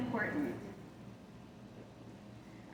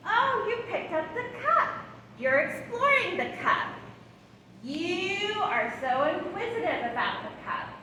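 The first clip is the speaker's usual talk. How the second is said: put-on narrating a baby's play; 4 semitones higher than usual. Shown as a demonstration. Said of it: "Narrate their play".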